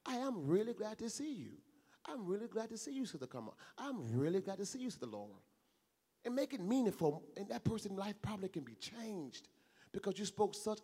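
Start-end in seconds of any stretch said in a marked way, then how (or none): 0.0-5.4 sincere welcome. Shown as a demonstration. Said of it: "That's not a lie".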